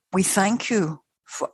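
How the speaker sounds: slow, measured voice of a spiritual being; golden spirit voice. Retold or imitated. Huge spiritual being speaks through the medium, slow and measured. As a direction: lightly imitate a great being giving thanks. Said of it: "It was what I call a golden voice".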